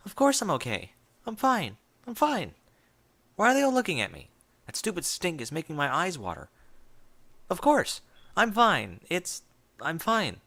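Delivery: a cracking voice forcing calm that isn't there; panicky insistence. A narrator's reading. Forced denial, panic rising.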